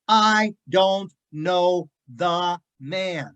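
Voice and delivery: drawn-out emphatic denial; slow sworn denial. Retold or imitated. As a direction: drag out each word as an oath. Peter swearing denial.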